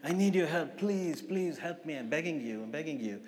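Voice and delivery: mild plea, trailing off softly; retold pleading. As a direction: beg for help, understated, sinking at the end. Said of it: "Begging him".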